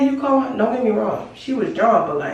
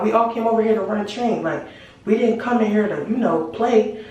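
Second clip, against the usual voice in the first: flat matter-of-fact repeat. Retold or imitated. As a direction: say it again, casual and a bit fast. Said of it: "that was his exact line".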